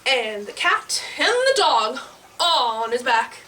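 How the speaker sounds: put-on animated read-to-kids narration; children's storytelling. A narrator's reading. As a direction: tell it playfully to small listeners.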